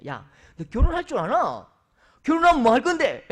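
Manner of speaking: loud, rising teasing jab. Retold or imitated. Pastor teases a bride-to-be, loud and playful. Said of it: "제가 놀리거든요".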